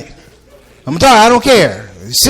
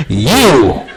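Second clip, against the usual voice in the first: deadpan threat; ominous low you; 6 semitones lower than usual. Retold or imitated. Comedian teasing the scared lady, low menacing you.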